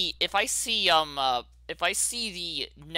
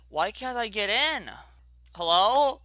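louder, higher puzzled demand; exasperated question louder than the mutter; frustrated; 5 semitones higher than usual. Real, not acted. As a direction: ask it again, more exasperated. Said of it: "repeated louder".

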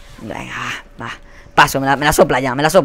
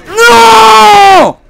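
a full-throated, high despairing yell; grito de frustración; 8 dB louder than usual. Real, not acted. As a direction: scream it out as you get killed. Muerte inesperada en partida. (grito desesperado)

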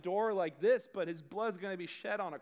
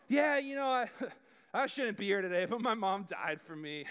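casual. Shown as a demonstration. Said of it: "say it casually like that".

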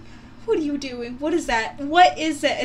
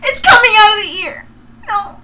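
shrieking; 10 semitones higher, 14 dB louder than usual. Real, not acted. Reacting to gross video.

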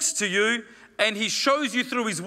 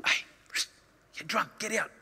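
priest ordering her out; 7 dB quieter than usual. Acted. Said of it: "He goes".

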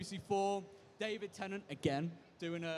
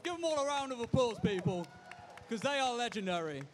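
calling to the crowd; 3 semitones higher than usual. Real, not acted. Calling audience applause.

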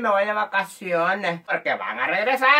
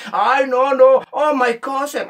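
higher affected protest; stuck-up cousin; 4 semitones higher, 4 dB louder, slower than usual. Acted. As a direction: play the snobbish returnee in English. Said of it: "ahora se hace el grande". (primo creído, tono afectado)

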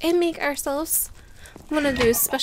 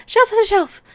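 laughing repeat; 8 semitones higher, 7 dB louder than usual. Real, not acted.

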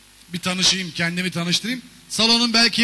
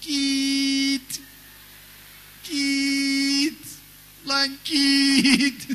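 higher, thin squeaky shout; small car yelling back; 5 semitones higher, much slower than usual. Pretend. Volkswagen shouting back at the truck, high yelp. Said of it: "o da ona bağırıyor".

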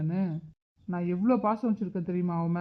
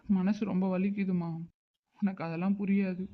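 quiet tearful; 5 dB quieter than usual. Acted. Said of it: "நீங்க அழாதீங்க".

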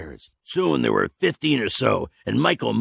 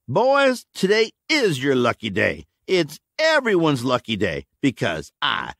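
raised, grandiose oration; grand speech; 7 semitones higher than usual. A narrator's reading. Tasker to the gunmen, grandiose speech. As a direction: sell the grand vision.

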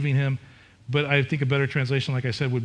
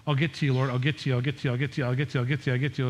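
dismissive brush-off; much faster than usual. Retold or imitated. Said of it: "my illustration".

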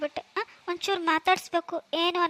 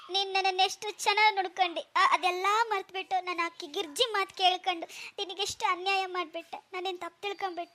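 fading softer into mild acted sobbing; tearful regret; 2 semitones higher, 5 dB quieter than usual. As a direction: trail off in tearful remorse. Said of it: "ಸಾಕ್ ಬಿಡ್ತೀರಾ ಇಬ್ರು". (ಸೊಸೆಯ ಮುಂದೆ ಪಶ್ಚಾತ್ತಾಪದಿಂದ ಮೃದುವಾಗಿ ಅಳು)

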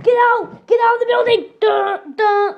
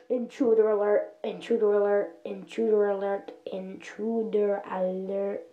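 alarm shout; 10 semitones lower, 11 dB quieter than usual. Acted. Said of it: "put an intruder alert system".

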